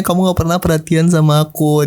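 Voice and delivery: a hint of the tearful girlfriend; touch of weepy voice; lightly imitated crying. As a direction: retell her complaint only mildly whiny. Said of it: "dia nangis gitu bilangnya".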